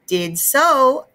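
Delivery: put-on high little-boy voice; cheerful small child; toddler voice. A narrator's reading. Fudge answering mom, high toddler voice.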